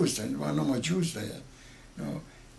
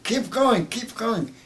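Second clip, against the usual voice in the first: urgent order; 9 semitones higher, 6 dB louder, slower than usual. Retold or imitated. Officer urging ambulance onward.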